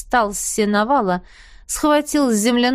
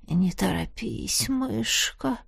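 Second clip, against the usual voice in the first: muffled groan; 8 dB quieter, slower than usual. A narrator's reading. Елисей stops Янина, a muffled groan. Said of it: "глухо простонал Елисей".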